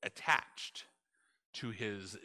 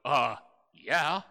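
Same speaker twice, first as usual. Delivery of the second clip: loud, snarky complaint building to high indignant whys; sarcastic whine; 6 semitones higher, 9 dB louder than usual. Retold or imitated. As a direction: sulk back at God with sarcasm. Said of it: "And Jonah goes".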